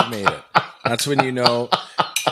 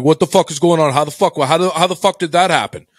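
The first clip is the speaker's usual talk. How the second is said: higher-pitched, agitated retold demand; imitated outburst; 4 semitones higher, 3 dB louder than usual. Co-host demanding answers on video call, imitated outburst. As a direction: imitate him going off without hesitation. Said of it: "he just goes off".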